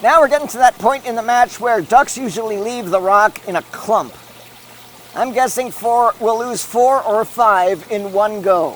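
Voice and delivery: brisk sportscaster call of the race; live play-by-play. Acted. Commentator calling the fountain race live.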